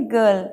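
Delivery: गर्ल as guhl without r; silent r. Shown as a demonstration. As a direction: say गर्ल with a schwa, no r. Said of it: "आर silent हो जाता है".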